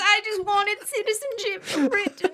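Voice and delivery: high, hammed-up British accent pleading; mock British accent. Begging Britain for citizenship after failing the quiz, mock British accent. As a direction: beg to be let into Britain in a put-on British accent. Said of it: "doing your bad British accent".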